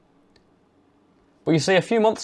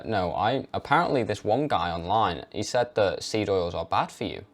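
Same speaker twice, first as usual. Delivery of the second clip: timid hedging; 3 semitones lower, 6 dB quieter than usual. Shown as a demonstration. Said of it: "as soon as you say something the opposite".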